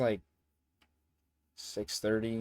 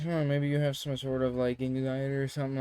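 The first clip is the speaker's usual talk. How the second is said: imitated girl; 4 semitones higher than usual. Girl voiced guessing a diagnosis.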